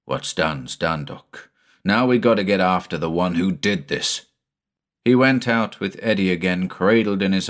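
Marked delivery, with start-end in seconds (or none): 0.0-4.3 determined. Acted. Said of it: "Quinlan shook his head determinedly".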